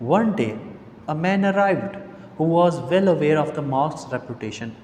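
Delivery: slow reading with pauses between phrases; story read-aloud. Acted. Reads the English story text aloud. (धीमे, रुक-रुककर कहानी पढ़ना)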